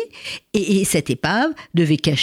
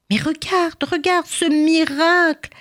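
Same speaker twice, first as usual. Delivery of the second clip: excited stammering; 11 semitones higher than usual. Acted. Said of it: "Il en bégayait".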